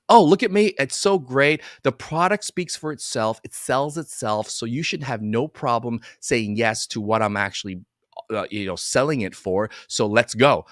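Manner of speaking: hammed-up self-satisfied pitch; a chiropractor boasting that the product sells itself; smug salesman. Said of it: "This is how chiropractors present".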